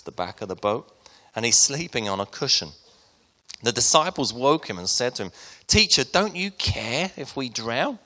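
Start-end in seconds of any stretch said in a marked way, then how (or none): 5.7-8.0 high, panicked cry for help; panicked plea. Acted. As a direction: cry out like sailors sinking in a storm. Panicked disciples waking Jesus.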